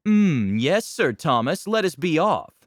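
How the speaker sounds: loud, lofty noble agreement; a haughty knight humouring his peer; mock aristocrat; pompous noble. Nobles banter in character.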